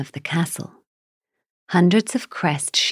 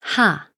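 scornful giant laugh; 3 semitones higher than usual. Acted. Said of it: "laughed Grim".

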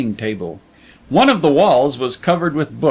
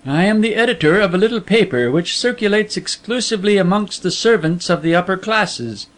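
a lightly voiced secretive editor, a bit higher and quicker; veiled editor; 4 semitones higher than usual. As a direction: play the hidden boss, smooth and knowing. Veiled editor explains the job.

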